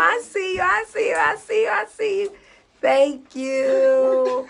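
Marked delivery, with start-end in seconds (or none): 0.0-2.3 playful shout-out. Real, not acted. Greeting fans who bought tickets.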